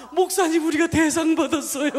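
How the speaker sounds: excited news. Retold or imitated. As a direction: burst out with the good news. Grandmother announcing the prize.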